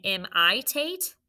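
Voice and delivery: im-I-tate with a long I in the middle; wrong long I. Shown as a demonstration. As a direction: say im-I-tate stressing a long I sound. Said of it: "is it saying".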